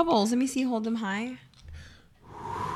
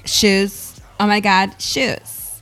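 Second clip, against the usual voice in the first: viral video voice; much slower than usual. Retold or imitated. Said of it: "viral video where it's like".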